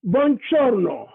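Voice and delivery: "Buongiorno" said slowly the Italian way, /bon-djor-no/; slow Italian greeting "Buongiorno"; Italian pronunciation. Shown as a demonstration. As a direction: model "Buongiorno" slowly for learners. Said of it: "how it is written".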